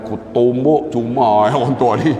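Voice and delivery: low muttered thought breaking into a laugh; inner grumble with a laugh. Retold or imitated. Preacher voicing his annoyed inner thought, muttering with a laugh. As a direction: grumble it under your breath, then laugh. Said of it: "Saya dalam hati".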